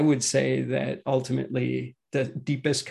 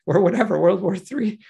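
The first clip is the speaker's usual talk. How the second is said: mock panic; 4 semitones higher than usual. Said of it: "You're not thinking".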